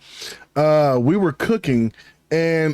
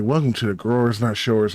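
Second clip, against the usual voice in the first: mild narration tone; 5 semitones lower than usual. Shown as a demonstration. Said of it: "like a mild tone".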